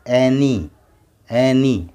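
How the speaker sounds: एनी blended, ending in ee; final y as ee. Shown as a demonstration. Teacher blends the sounds into एनी, y as ee. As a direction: say एनी as one word with a long ee. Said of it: "तब वाई को ई पढ़ना".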